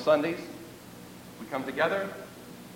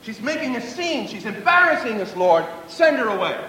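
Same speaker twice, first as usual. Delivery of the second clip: complaining disciples; 3 semitones higher than usual. Acted. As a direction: plead like embarrassed followers wanting her gone. Preacher acts out disciples' complaint.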